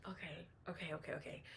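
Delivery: hushed whisper to herself. Real, not acted. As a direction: whisper it under your breath. Nervously gathering thoughts before predicting.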